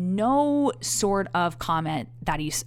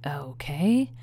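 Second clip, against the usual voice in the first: dismissive whisper; 3 semitones lower than usual. Retold or imitated. Quoting date's dismissive okay.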